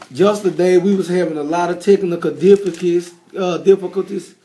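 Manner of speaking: rough, hoarse voice after a microphone failure. Real, not acted. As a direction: speak through a worn-out, hoarse throat. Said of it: "my voice hoarse".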